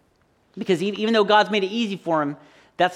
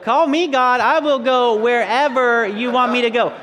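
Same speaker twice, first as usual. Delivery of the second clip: eager volunteer; 3 semitones higher, 4 dB louder than usual. Retold or imitated. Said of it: "you guys are like".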